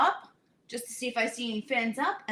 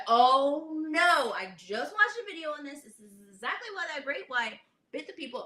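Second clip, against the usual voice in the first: mock alarm; 4 semitones higher than usual. Snorkeler seeing fish being fed, mock alarm. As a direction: replay your alarm, pitched up.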